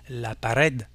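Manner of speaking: pared stressed on RED; Spanish pared with the accent on "red"; stress on last syllable. Shown as a demonstration. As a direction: say la pa-RED, leaning on the ending. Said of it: "c'est la dernière syllabe qui est accentuée".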